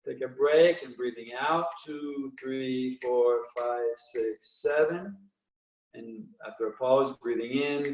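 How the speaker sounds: pace the class through inhale and exhale calmly; guided breathing count. Acted. Instructor counting a breathing class through the rhythm, calm and steady.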